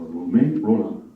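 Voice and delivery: Romain Rolland with nasal French vowels, the final d dropped; best French accent. Shown as a demonstration. Host proudly naming the author in a French accent. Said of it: "I'm just doing my best French accent".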